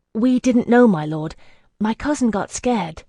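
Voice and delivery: high, loud and hurried excuse; anxious outburst. Acted. Woman excusing her silent cousin to a scout, high and loud. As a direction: blurt it out in fear of discovery.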